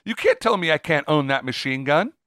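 hammed-up indignation; mock indignant objector. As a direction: play a stubborn citizen insisting on rights. Mock indignant American asserting rights.

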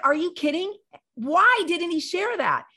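high, loud incredulous disbelief; retold amazement. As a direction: ask it as if floored by the news. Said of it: "I was blown away".

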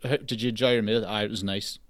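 low, quiet, understated lack of interest; mildly unimpressed murmur. Shown as a demonstration. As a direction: answer as if nothing impresses you. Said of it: "I sound not impressed about anything".

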